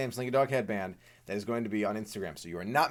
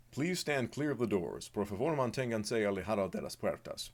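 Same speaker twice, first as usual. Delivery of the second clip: monorail announcer; 2 semitones lower, 4 dB quieter than usual. Pretend. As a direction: read it like the monorail's safety spiel. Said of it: "Please say the monorail, uh, monologue".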